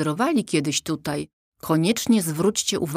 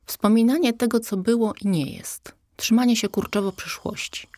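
agitated; 6 semitones higher than usual. Acted. Horse's emotional outburst.

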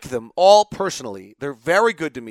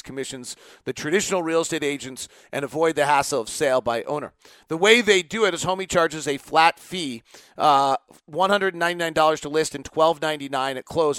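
steady, even sponsor read; podcast host reading sponsor copy. Real, not acted. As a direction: read the copy briskly and evenly. Reads a sponsor ad.

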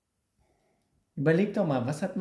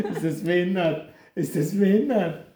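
laughing; 2 semitones higher than usual. Real, not acted. Laughing at own silly answer.

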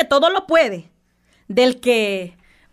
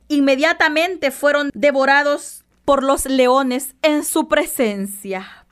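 scripture reading. Acted. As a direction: read the verse deliberately, giving each phrase weight. Reads Bible passage aloud.

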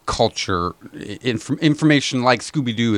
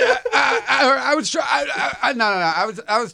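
laughing; 12 semitones higher, faster than usual. Real, not acted. Caught laughing at the joke.

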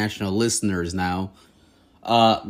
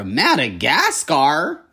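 incredulous; 3 semitones higher, much slower than usual. Real, not acted. Incredulous reaction to barista.

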